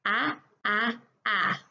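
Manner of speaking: "Ah, ah, ah" as short separate open vowels; repeat-after-me sound. Shown as a demonstration. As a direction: model each "Ah" slowly for the class to echo. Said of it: "Repeat after me".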